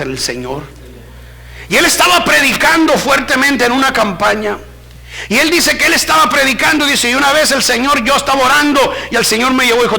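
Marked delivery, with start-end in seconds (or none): 1.7-10.0 driving, high-pitched storytelling; forceful preaching narration. Real, not acted. Preacher retelling another preacher's vision, forceful. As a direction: tell the testimony in a raised pulpit voice.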